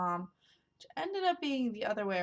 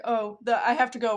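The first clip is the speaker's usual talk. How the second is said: hurried stepmom; 3 semitones higher, 8 dB louder than usual. Retold or imitated. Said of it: "she's like".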